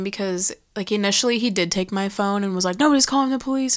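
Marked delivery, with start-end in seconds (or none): 2.8-3.8 higher-pitched imitation of a firm refusal; dismissive refusal. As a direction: shut the idea down in a mimicked voice. Retold refusal to allow police call.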